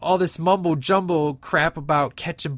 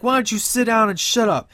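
louder, higher mock heckle; heckler's yell; 6 semitones higher, 5 dB louder than usual. Theater heckler telling Shogun to shut up, louder. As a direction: yell it from the seats.

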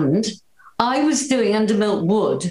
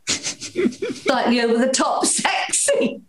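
slow, higher, hammed-up sexy delivery; over-the-top sexy; 5 semitones higher, slower than usual. Shown as a demonstration. Actress showing how she read the part, mock sexy. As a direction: draw it out in mock seduction. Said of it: "I made a sort of sexy".

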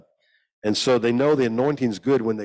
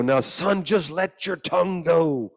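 church lady coaxing; 8 semitones higher, slower than usual. Retold or imitated. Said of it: "And they go".

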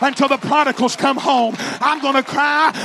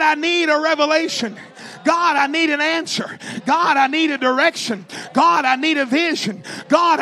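urgent, repeated pleas in a preacher's voice; crying out to God; 2 semitones higher than usual. Acted. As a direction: call out to God in demonstrative prayer. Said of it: "Cry for your needs".

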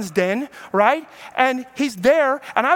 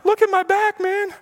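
crowing about his own back, pitched up; showing off; 10 semitones higher than usual. Retold or imitated. Preacher voicing a boastful man.

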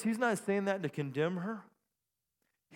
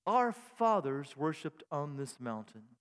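lightly theologian; 3 semitones lower, slower than usual. Shown as a demonstration. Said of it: "she becomes a theologian here".

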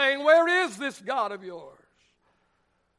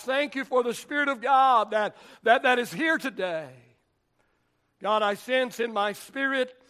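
earnest prayer voice; pastoral prayer. Acted. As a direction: pray over the church with conviction. Pastor prays over the congregation.

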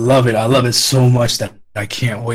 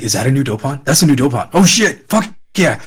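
geek out over a new monster; excited; 3 semitones higher than usual. Retold or imitated. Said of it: "I was so excited".

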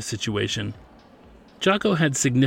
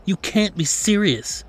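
much higher, slower disbelief; incredulous; 9 semitones higher, slower than usual. A narrator's reading. Manager hearing the impossible news, incredulous. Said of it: "replied with incredulity".

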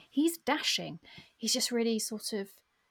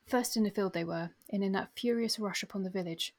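story narration. A narrator's reading. Reads battle passage aloud.

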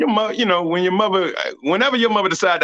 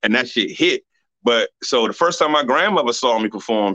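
ordinary talk, nothing marked

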